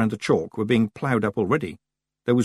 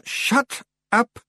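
high, mildly yelled order; yelling Rob Anybody. A narrator's reading. Rob silencing the frightened Feegles, yelled. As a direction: cut them off, pitched well up. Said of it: "Rob yelled".

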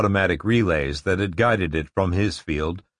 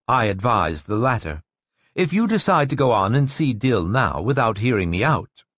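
intense woman voice; 4 semitones higher than usual. Acted. Narrator voices Rachel.

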